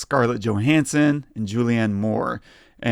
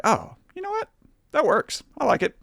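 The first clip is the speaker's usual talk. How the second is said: much higher, light and breathy-sounding mock thought; lifted high falsetto quote of his own thought; high-pitched inner voice; 14 semitones higher, 4 dB quieter than usual. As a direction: squeak it out like a delighted little voice in your head. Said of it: "in a way that I was like".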